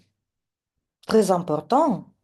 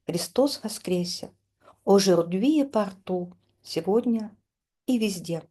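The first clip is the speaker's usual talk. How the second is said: poem recitation. Acted. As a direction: recite the verses solemnly, line by line. Reads poem with translation. (lecture solennelle d'un poème)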